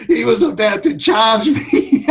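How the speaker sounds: can barely get it out for laughing; amused laugh-talk. Real, not acted. Laughing while retelling the doctor.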